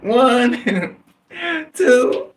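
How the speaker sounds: put-on high, little-kid voice counting out; small child counting. Boy counting aloud for the robber, in a high little-kid voice.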